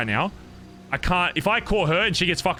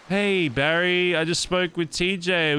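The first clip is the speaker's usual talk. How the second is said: Mister K on the phone; 3 semitones higher, slower than usual. Retold or imitated. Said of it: "a call from fucking Mister K being like".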